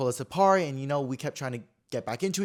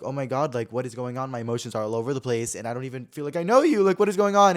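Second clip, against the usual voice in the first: rising overwhelmed panic; 6 dB louder than usual. Retold or imitated. Seeing the ex again, emotions spinning, rising to a cry. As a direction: let the confusion swell until it bursts.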